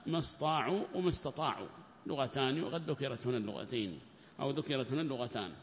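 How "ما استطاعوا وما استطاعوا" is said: ما استطاعوا said short as "ma staʕu", then وما استطاعوا said full as "ma stataʕu"; two readings shown. Shown as a demonstration. Teacher shows students both readings, short then full. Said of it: "ولغتان".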